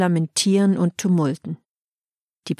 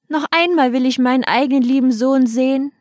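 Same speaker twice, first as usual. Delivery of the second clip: higher, mournful call; lamenting cry; 5 semitones higher, 3 dB louder than usual. Acted. Grieving king calls after his departing son, lamenting cry. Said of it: "Der klagende König ... und rief".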